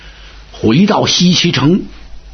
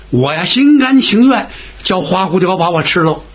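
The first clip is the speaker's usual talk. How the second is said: measured, acted resolve, near usual pitch; willing acceptance. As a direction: accept the plan with settled willingness. Now agrees to be the bait.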